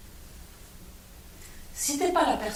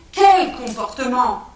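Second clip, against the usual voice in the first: "Quel comportement?" louder and slow, hitting Quel; insistent repeat; 8 dB louder, slower than usual. Acted. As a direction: demand an answer, each word weighed. Repeated question, second insistent.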